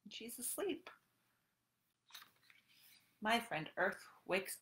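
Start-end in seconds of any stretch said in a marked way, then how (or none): 0.1-0.9 whisper. Acted. Sleeping earth in book.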